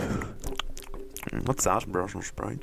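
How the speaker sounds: hushed ASMR tasting whisper. Pretend. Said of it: "Be like A S M R".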